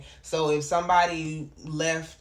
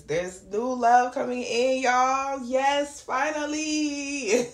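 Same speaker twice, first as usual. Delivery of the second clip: excited; 6 semitones higher, 4 dB louder, much slower than usual. Real, not acted. Celebrating new love reading.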